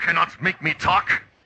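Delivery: badly done German accent. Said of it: "my German accent sucks".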